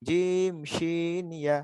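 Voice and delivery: slow, measured reading of a rule; lesson recitation. Shown as a demonstration. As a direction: recite it slowly for the class to follow. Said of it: "ছয় নম্বর মাখরাজটা আরেকবার পড়ে নিই". (ধীরে ধীরে টেনে পড়া)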